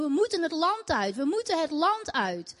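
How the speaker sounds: urgent chant of the demons, held back; retold demons screaming. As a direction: demons crying out to leave, lightly voiced. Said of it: "Ik hoorde ze schreeuwen".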